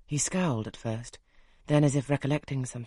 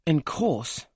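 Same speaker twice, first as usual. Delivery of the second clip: twanging exclaim; 2 semitones higher, 5 dB louder than usual. A narrator's reading. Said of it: "with a twang of voice ... fantastic".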